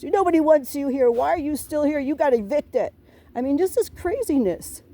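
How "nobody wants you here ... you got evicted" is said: retold neighbor's outburst. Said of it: "And then she goes off and says".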